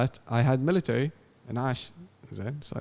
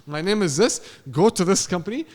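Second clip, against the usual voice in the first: firm retort; 4 semitones higher, 4 dB louder than usual. Retold or imitated. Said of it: "I kept my composure".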